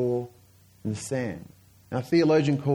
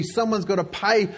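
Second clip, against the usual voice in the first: mock mob anger, insistent and a little raised; angry mob; 2 semitones higher than usual. Preacher voicing the crowd angry at Rome, mildly angry. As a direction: hammer out each grievance, drawing out the key words. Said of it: "Everyone's angry".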